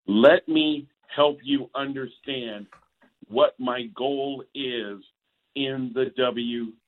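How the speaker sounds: slow, measured condescension, imitating a polished wrestler; talking down. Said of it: "talking down".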